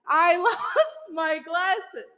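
slow, breaking into laughter on "lost my glasses"; laughing through it. Real, not acted. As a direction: let the laugh spill into the line.

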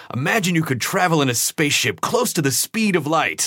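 imitating a dramatic advertisement announcer. Man in a Discover magazine ad addressing readers, dramatic. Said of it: "he had this very dramatic voice".

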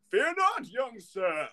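high, lilting fairy voice; little fairy. Acted. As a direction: reassure him in a high fairy voice. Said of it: "the little fairy's name is".

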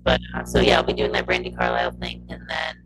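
glitchy robotic audio. Real, not acted. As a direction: voice breaking up like a robot. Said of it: "your voice went real robotic real quick".

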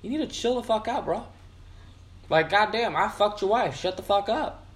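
high, mocking bro voice; bro reply. Answering the offended rider as a cocky bro, high and mocking. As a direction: brush him off like a cocky bro. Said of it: "It's like".

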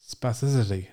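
quick second attempt at "Spasticity"; said fast. Shown as a demonstration. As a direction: rush through "Spasticity" so it sounds right. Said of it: "say it really fast".

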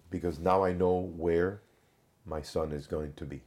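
quoting the mother's composure, softening toward the end; calm retold explanation. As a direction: let it sink quietly, as she calmly explained. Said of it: "and very calmly".

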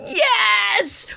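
high cheering yell, yes then woo. Retold or imitated. Viewer cheering the couple back together, high cheering yell. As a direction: cheer out loud like a fan at the TV. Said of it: "yelling out loud".

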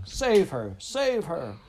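high, urgent shout; shouting king. A narrator's reading. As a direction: cry out a desperate royal command. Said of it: "the king was still shouting".

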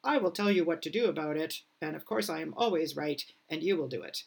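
lightly barked sergeant major orders. Acted. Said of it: "I'm using my Sergeant Major voice right now".

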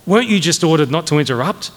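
icy reprimand put as a question; cold inquiry. Acted. Major rebuking a cadet for interrupting, coldly. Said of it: "Major Metcalf inquired coldly".

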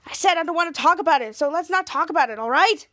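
mildly heated, insistent retort; irritated outburst. Retold or imitated. Pouty teen snaps when teased.

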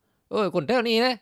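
slow, high southern Thai auntie voice; local southern Thai twang. Retold or imitated. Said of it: "สำเนียงเรามันเหน่อแล้วอะ".

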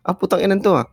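high-pitched mock outburst; mock angry heckle. Crowd member angered by heckler, mock snap. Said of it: "Sumigaw ka ng ganun".

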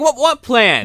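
high-pitched baffled movie quote; hammed-up incredulous question; mock bewilderment. Acted bewildered reply in movie.

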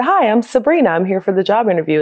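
high, eager hello; cheerful introduction. Retold or imitated. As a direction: introduce yourself brightly. Herself arriving cheerfully.

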